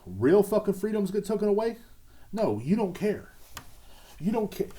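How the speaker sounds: high, heated outrage; angry. Real, not acted. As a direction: spit it out in disbelief. Angry rant about freedoms.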